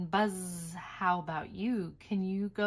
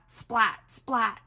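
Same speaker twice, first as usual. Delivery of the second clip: lightning splat; 5 dB louder than usual. Acted. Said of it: "He makes lightning splat".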